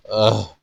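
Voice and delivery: exasperated ugh; annoyed groan. A narrator's reading. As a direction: groan it out, fed up. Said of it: "sighed and moaned".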